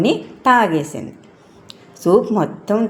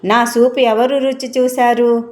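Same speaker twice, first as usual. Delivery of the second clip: raised, higher-pitched bear question; lightly voiced loud father bear; father bear's loud demand; 6 semitones higher than usual. A narrator's reading. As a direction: call it out high and level as an upset bear. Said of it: "బిగ్గరగా ఇలా అరిచింది".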